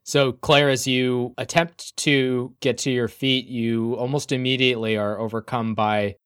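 deliberate narration, slowing toward the end; game master's scene setting. A narrator's reading. Game master giving Claire sudden vertigo, measured narration. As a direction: narrate the dizzy moment with care.

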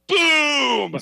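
high, loud mock battle yell; hammed-up shout of boom. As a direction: bark it out like a badass. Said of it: "That's the only time I've ever talked shit".

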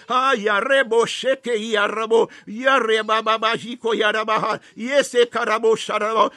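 rapid rhythmic tongues, syllables tumbling out; fervent glossolalia in prayer; speaking in tongues. Acted. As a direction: pray in tongues, lost in the spirit. Praying in tongues.

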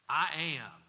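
lightly voiced divine declaration; loud, weighty pronouncement; God. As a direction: declare the name with a touch of solemn force. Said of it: "the voice of God has this".

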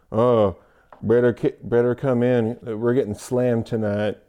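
lightly imitated Southern accent; a half-there Southern accent, understated; Southern gal. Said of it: "like, Southern gal. But, but it comes out".

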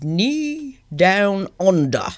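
slow, put-on Australian accent; hammed-up Aussie drawl. Co-host announcing her first story, mock Australian accent. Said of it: "Australian accent".

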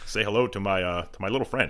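lightly voiced gangster president mash-up; a hint of movie gangster in presidential cadence; Scarface Obama. Shown as a demonstration. Combining impressions for laughs, lightly voiced Scarface Obama. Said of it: "give me, like, Scarface Obama".

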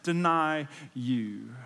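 slow and loud, pressing each word; emphatic vow. Retold or imitated. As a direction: Peter insisting he'll never deny Jesus. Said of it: "Peter declared emphatically".

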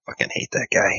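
muttered, nearly whispered curse; under the breath. Acted. Player's agent cursing a man walking away, under his breath. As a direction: mutter it with almost no voice. Muttered aside behind departing man's back.

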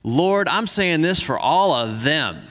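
measured, earnest Bible reading; scripture reading. Acted. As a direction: read the passage like a pastor to the church. Reads scripture passage aloud.

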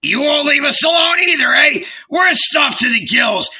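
high, blustering tirade; old boss in a loud temper; enraged. A narrator's reading. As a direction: rant indignantly, bursting into shouts. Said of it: "he turned to Andrew in a rage".

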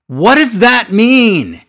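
high, slow baffled question; incredulous what does that mean; exasperated disbelief. Real, not acted.

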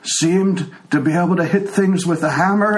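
put-on old man slipping into a Scottish accent; old tiefling's voice sliding toward Scottish; drifting Scottish. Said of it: "now I'm getting Scottish".

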